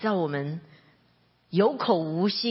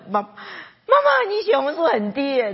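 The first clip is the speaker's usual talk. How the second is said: calling out to mom; 8 semitones higher, 5 dB louder than usual. Retold or imitated. Calling out to her mother.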